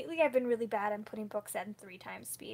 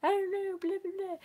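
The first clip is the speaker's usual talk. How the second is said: higher, louder sheepish brush-off; mock sheepish shrug; 9 semitones higher, 5 dB louder than usual. Answering husband's teasing with a higher, louder sheepish shrug. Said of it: "And I was like".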